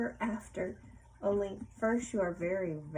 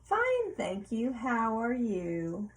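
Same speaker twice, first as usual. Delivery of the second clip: cheery reply; much slower than usual. Acted. Modeling the pirate's polite answer.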